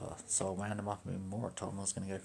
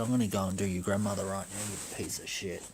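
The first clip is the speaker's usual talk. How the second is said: retold taunt; 6 dB louder than usual.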